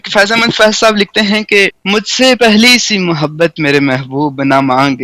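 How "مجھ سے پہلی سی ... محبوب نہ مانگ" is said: measured, stately Urdu verse reading; poetry recitation. Shown as a demonstration. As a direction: recite each line like a mushaira verse. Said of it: "پڑھت کے انداز میں آپ سنیے".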